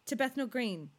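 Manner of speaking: attempted British accent slipping into Australian. Shown as a demonstration. Trying British for co-host, slightly Australian accent. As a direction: try London, land partly in Australian. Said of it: "you saying it in Australian".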